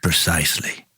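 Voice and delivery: low, unhurried Southern wizard; Tennessee drawl. Acted. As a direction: stretch it in a slow Southern drawl. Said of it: "That's Zalarius with the southern drawl".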